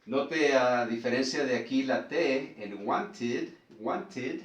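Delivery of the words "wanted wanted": wanted with a crisp, real T, not flapped; wanted, distinct T sound; clear T. Shown as a demonstration. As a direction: say the T in wanted fully. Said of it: "no suena como la T de aquí".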